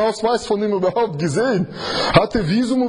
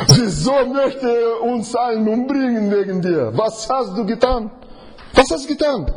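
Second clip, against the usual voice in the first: alarmed sailors; 6 semitones higher than usual. Retold or imitated. Frightened sailors question Jona.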